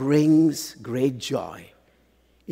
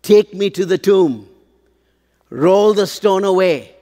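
commanding; 4 semitones higher, 6 dB louder than usual. Acted. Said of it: "He is in control".

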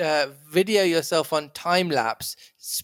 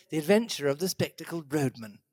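softer South London roadman accent; 3 semitones lower, 6 dB quieter than usual. Shown as a demonstration. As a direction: read the title in a roadman accent. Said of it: "it should be read".

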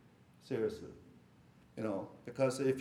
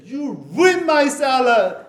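higher, louder, slowed mock outrage; imitating upset wife; 9 semitones higher, 11 dB louder, slower than usual. Husband retelling wife scolding him over salad, mock angry and loud. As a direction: play the wife's outburst, hammed up and laughing. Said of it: "She was so upset".

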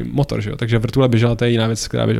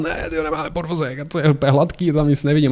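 higher-pitched, mock panicked yell without the volume; retold yell; 4 semitones higher than usual. Passenger to pilot about missing landing gear, mock yelling. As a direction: imitate yelling out bad news. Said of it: "jsem začal řvát".

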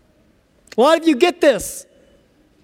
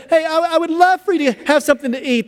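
eager, higher-pitched urging; insistent offer; 5 semitones higher than usual. Pretend. Host offering food a third time, insistent. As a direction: press the offer warmly but firmly.

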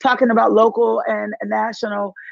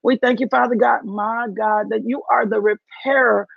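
fervent spoken prayer with rising praise lines. Real, not acted. Preacher praying over her online congregation, fervent. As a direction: pray it out over the listeners. Opens live stream in prayer.

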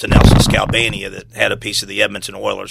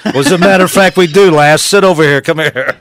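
put-on much higher and louder British accent; mock British charmer; 6 semitones higher, 8 dB louder than usual. British player answering the waitress in a loud mock British accent. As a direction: play the cocky British player.

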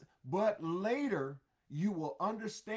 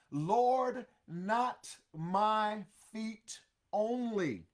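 loud Lord, then drawn-out slow plea; eager Peter; 4 semitones higher, 4 dB louder, much slower than usual. Acted. Peter pleading with Jesus, slow loud plea. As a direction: plead it slowly and loudly. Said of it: "Oh my goodness".

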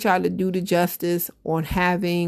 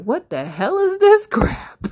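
much higher, slowed outraged quote; mock outrage; 12 semitones higher, 3 dB louder than usual. Fans hearing a rapper's new record, high mock outrage. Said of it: "We was like".

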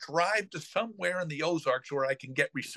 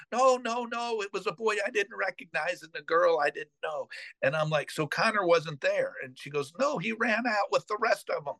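flustered nanny; 6 semitones higher than usual. Retold or imitated. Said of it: "she's like".

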